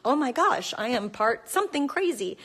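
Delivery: gasp, then marvel at the discovery; hammed-up excited realization; mock amazement. Acts out hoped-for DNA result.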